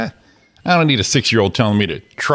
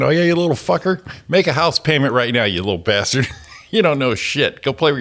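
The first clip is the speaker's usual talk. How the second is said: mock scolding; 5 semitones higher than usual. Mock-yelling at a kid.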